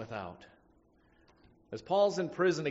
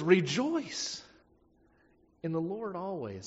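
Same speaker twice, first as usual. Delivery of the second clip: Rejoice said higher and louder in disbelief; incredulous Rejoice, louder, questioning; 3 semitones higher, 3 dB louder than usual. Acted. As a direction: question how anyone could say Rejoice. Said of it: "how, how do you get in the picture".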